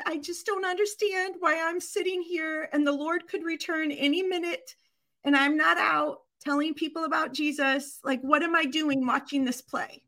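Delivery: imitated worry, without real tears; retold tearful grandma. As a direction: lightly voice an upset grandmother. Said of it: "she's crying".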